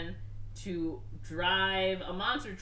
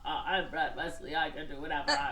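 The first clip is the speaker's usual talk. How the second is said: lightly voiced gloating villain with a staccato fake laugh; a hint of cartoon bad-guy bragging; mock villain boast; 3 semitones lower than usual. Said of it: "Brad's like".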